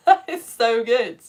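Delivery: laugh, then say it aloud, slowly; laughing praise. Real, not acted. Host praising Edmund's poem, laughing aloud. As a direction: break into delighted laugh.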